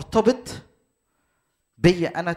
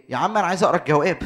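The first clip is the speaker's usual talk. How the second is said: impatient student; 5 dB louder, much faster than usual. Acted. Impatient student pushes the teacher.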